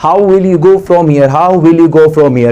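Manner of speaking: slow, deliberate dictation; teacher dictating slowly; slow model sentence. Shown as a demonstration. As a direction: dictate it for the class. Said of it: "आप यहां से कैसे जाओगे?".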